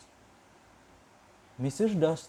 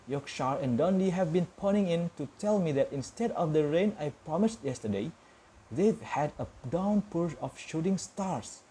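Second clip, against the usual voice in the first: chirpy forecaster taking the handover; cheery TV weatherman; 3 semitones higher than usual. Acted. Weatherman gives his forecast.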